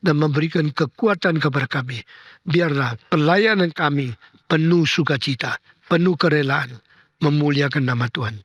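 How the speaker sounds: steady, reverent prayer cadence; closing prayer. Acted. Pastor prays over congregation, reverent and steady. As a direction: pray for the flock, settling down to Amen.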